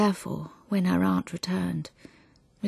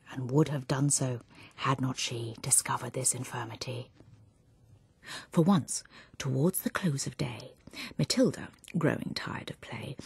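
hushed poem reading. Acted. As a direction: draw listeners in with a hushed telling.

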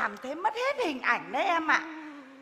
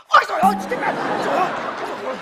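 loud, higher cries of pain that fade down; pained wail; 4 semitones higher, 8 dB louder, much faster than usual. Acted. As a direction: wail in pain, then trail off. Older sister cries out from ant bite.

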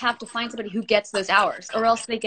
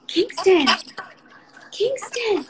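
calling out; 9 semitones higher, much slower than usual. Real, not acted. Mom calling her son Kingston from another room.

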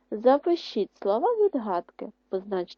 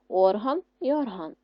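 ОРган, then орГАН; first орган stressed on ОР, second орган on ГАН; contrasting word stress. Shown as a demonstration. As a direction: move the stress in орган from first to last syllable. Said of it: "Поставити наголос у вставлених словах".

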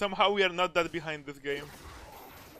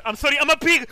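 wailing apology; 10 semitones higher, 8 dB louder than usual. Real, not acted. Apologizing for a misplay.

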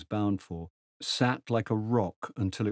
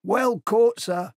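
much higher, loud and cheery; grinning station master; 12 semitones higher, 7 dB louder, slower than usual. Acted. Station master cheers Tegens onto the train, grinning. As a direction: cheer him on with a grin.

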